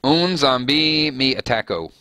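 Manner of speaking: slow Portuguese-ish read; attempted Portuguese. Shown as a demonstration. Reading Portuguese translation to viewers, slow Portuguese accent. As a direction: lean into a Portuguese accent slowly. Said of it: "Or Portuguese".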